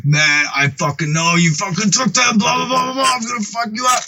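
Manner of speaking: mock heated rant, pitch climbing. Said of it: "starts getting a little heated".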